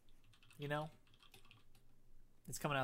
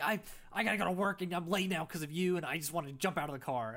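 mock sister; 4 semitones higher than usual. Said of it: "She's like".

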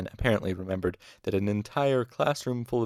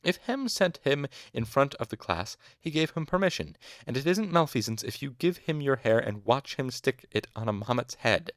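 higher-pitched hint of an old man; old physicker; 6 semitones higher, 3 dB louder than usual. A narrator's reading. Old master defends the student, lightly voiced old physicker. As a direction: lightly voice an elderly master arguing. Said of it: "the Physiker's old voice".

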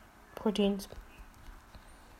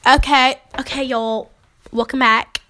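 lightly put-on southern accent; a hint of mock southern twang; 3 semitones higher, 4 dB louder than usual. Host switches accent for show, southern accent. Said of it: "Now I have a southern accent".

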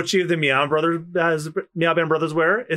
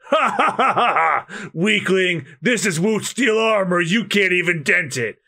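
gloating villain; 2 semitones higher than usual. Acted. Villain gloating in manga read.

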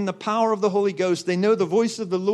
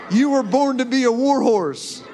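preached shout; 4 semitones higher, 4 dB louder than usual. Real, not acted. Preaching climax to congregation.

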